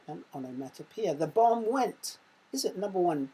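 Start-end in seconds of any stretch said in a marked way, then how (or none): 1.1-2.2 louder, slow, suspenseful read; dramatic build-up. Shown as a demonstration. Teacher reading the quiz sentence to pupils, slow and dramatic. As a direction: build suspense before the bang.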